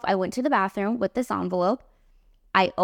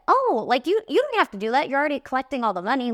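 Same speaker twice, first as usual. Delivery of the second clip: higher and fast, politely brushing it off; flustered protest; 5 semitones higher, faster than usual. Retold or imitated. Artist to bride, awkwardly protesting she needn't collect tips, flustered and fast. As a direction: rush out a nervous polite refusal.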